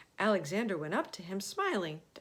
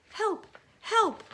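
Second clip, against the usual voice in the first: high, loud panicked cries; shouting for help; 8 dB louder than usual. Acted. Crowd fleeing Alexander in the street, yelling. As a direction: yell it as you run away.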